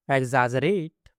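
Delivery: एग्जैजरेट with a long final "rate"; एग्जैजरेट lengthened for learners to follow. Shown as a demonstration. Word model, then drawn-out repeat.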